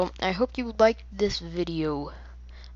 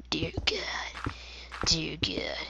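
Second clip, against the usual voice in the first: whispered dear god; 5 dB quieter, much slower than usual. Real, not acted. Embarrassed aside.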